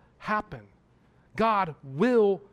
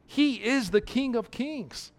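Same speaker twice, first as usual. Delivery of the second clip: rising preaching fervor; 4 semitones higher, 4 dB louder than usual. Acted. Preacher proclaiming Christ's reign to the congregation, fervent. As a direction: build to a proclaiming climax.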